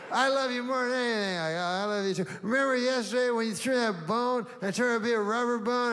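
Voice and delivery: high and fast, breathless doggy gushing; excited dog voice. Retold or imitated. Dog chatters on to his owner, high and fast. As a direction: rattle it off like a thrilled puppy. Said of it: "And I go".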